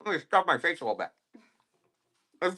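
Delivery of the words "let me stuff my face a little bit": put-on high, goofy voice of a greedy kid; playfully mock yourself as a glutton; mock fat kid. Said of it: "look at me just being a fat kid".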